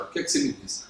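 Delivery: pressing the question again under the breath; quiet repeat. Shown as a demonstration. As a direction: drop the question almost to a whisper. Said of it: "Eu vou repetir a pergunta".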